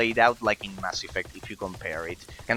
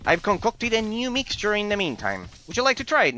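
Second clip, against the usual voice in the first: lightly voiced sly lizard creature; a sly, sticky lizard voice, higher; sly sticky chameleon; 6 semitones higher than usual. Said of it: "I need to train a lizard man voice".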